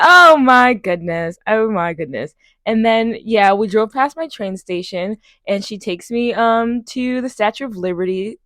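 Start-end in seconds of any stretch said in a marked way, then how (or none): 0.0-2.3 stunned disbelief. Retold or imitated. Shocked reaction.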